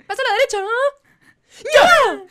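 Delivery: high, loud barked commands; drill sergeant. Acted. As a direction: bark orders like a sergeant. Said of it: "El sargento".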